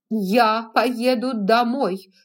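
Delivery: slow, loud, drawn-out resolve; determined. A narrator's reading. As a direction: lean hard on поеду. Scarlett decides to go home.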